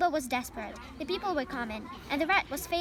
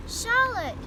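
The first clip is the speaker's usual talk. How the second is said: moaning; 8 semitones higher, 7 dB louder than usual. A narrator's reading. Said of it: "he moaned".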